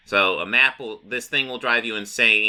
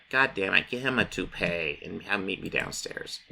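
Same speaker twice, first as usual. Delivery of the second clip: irritated mutter; 7 dB quieter than usual. Retold or imitated. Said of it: "Lex Luthor's like".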